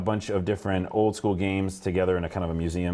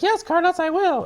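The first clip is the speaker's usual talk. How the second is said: put-on high, bright Valley Girl voice; 4 dB louder than usual. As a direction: chirp it like a Valley Girl device. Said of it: "I sounded like a Valley Girl".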